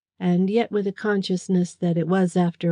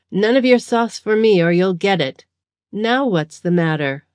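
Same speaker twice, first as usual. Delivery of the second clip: loud, coarse jeering ruffian; a lightly voiced bully mocking his captive; rough thug; 2 semitones higher, 4 dB louder than usual. Thug jeering at the tied-up prisoner, rough and loud.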